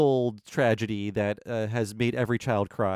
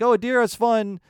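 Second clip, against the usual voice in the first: sneering at the Disney plot as simple fun; mocking summary. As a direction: make the movie sound shallow. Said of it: "they're really about, like".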